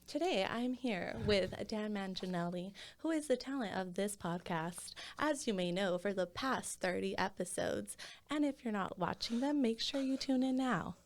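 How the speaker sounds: DJ voice. Acted. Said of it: "was that your D J voice?".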